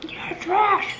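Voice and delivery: high, sneering hater; mock hater voice. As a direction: sneer it like an online troll. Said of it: "They'd be like".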